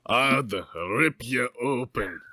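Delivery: slow put-on giant voice; lightly voiced half-giant, drawn out; Hagrid voice. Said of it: "he explained".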